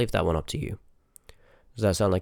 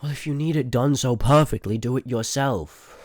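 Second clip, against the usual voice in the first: louder, higher, then slowing on do it yourself; irritated snap; 5 semitones higher, 5 dB louder than usual. Acted. To the Seeker criticizing her method, an irritated snap. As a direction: bite back, fed up with the nitpicking.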